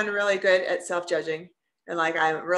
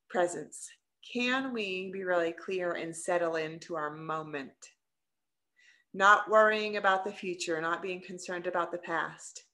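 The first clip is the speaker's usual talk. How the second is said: guided mindfulness. Acted. Leads a presence exercise.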